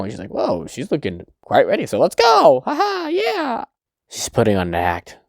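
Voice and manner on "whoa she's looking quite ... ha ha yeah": high, eager mock cheer; gung-ho excitement. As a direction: rise into an over-eager, drawn-out whoop. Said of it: "super happy and ready, all gung-ho".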